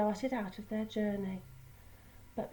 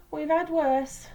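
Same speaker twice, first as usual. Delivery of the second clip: smiling; 6 semitones higher, 8 dB louder, slower than usual. A narrator's reading. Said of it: "smiled Oliver".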